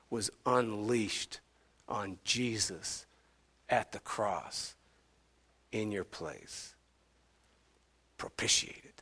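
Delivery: grave hush with long pauses; hushed reverence. Real, not acted. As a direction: let it sink almost to a whisper. Solemn telling of the crucifixion.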